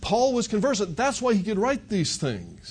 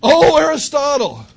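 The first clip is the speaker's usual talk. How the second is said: drawn-out, higher, louder mock cry; mock yell; 8 semitones higher, 8 dB louder than usual. Preacher mocks a dying man calling Aristotle, slow mock yell. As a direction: stretch the name out in fake panic. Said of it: "I've never heard of anybody yell".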